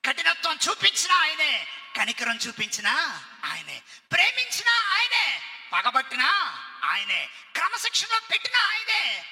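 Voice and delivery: rising loud proclamation; fervent declaration. Acted. Student boldly declaring one God to the teacher, fervent. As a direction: build it with conviction.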